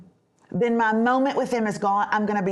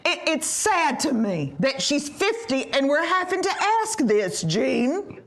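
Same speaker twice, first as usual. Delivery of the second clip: imitating mom. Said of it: "She was gonna say this".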